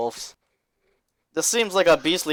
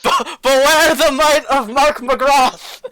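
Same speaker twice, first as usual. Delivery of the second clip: high, loud, slow heroic boast; grand proclamation; 9 semitones higher, 7 dB louder, slower than usual. Pretend. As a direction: declaim it like a hero. Player shouts grand boast.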